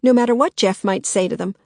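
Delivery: snapping. Acted. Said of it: "Agnes snapped".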